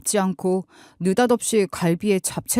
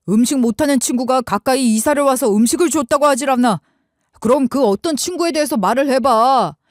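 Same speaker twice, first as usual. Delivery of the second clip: louder, raised husband snapping in anger; irritated outburst; 4 semitones higher, 3 dB louder than usual. Retold or imitated. Husband lashing out at evasive wife, irritated. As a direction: let the irritation burst out. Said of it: "버럭 짜증을 내버렸죠".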